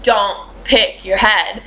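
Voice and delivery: slow, deliberate mock scolding; stern stylist. Stylist scolds client picking at bleached scalp, slow stern warning. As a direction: draw it out like a stylist catching a kid.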